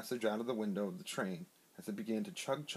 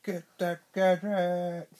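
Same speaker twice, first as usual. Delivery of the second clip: much louder, slow, higher villain growl; Doctor Claw voice again, bigger; 9 semitones higher, 10 dB louder, slower than usual. Acted. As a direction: ham up the villain for the kid. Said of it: "Say it again".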